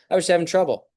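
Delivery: upbeat reframing. Acted. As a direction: lift the whole line up high, like relief. Reframed self-talk quote.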